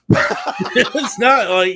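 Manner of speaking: slow words through laughter; laughing. Real, not acted. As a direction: laugh while trying to talk. Laughing mid-sentence about the set.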